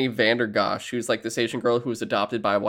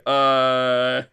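sarcastic clerk; 4 dB louder, much slower than usual. Retold or imitated. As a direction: pretend to buy an obvious fake. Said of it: "you're like".

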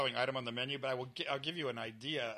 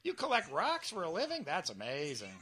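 mock fascination with something dull; hammed-up wonder; exaggerated amazement; 3 semitones higher than usual. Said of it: "You could make anything interesting".

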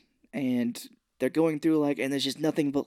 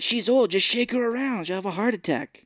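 lightly voiced schemer; 8 semitones higher than usual. Crystal's casual murder suggestion.

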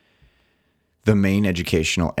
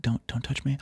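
laughing; 8 semitones higher, 8 dB quieter than usual. Real, not acted. Giggling, pleading not to be touched.

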